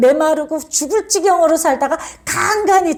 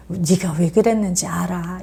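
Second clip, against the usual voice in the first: comforting; 6 semitones lower, 4 dB quieter than usual. Retold or imitated. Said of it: "이렇게 위로하실 때도 있어요".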